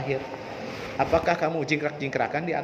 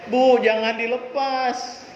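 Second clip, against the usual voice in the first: put-on whiny child; 6 semitones higher, slower than usual. Child begging mother on ladder.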